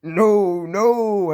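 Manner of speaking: loud, high defiant no; firm refusal. Acted. Toby refusing to let the ghost in, loudly. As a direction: shout it back through the door.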